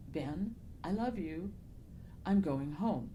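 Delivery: softly retold faint voice, slowly; weak voice, imitated. Author repeating the voice she heard, mildly weak and soft. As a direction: lightly imitate someone faint and failing. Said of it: "A very weak".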